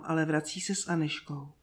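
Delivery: usual speaking voice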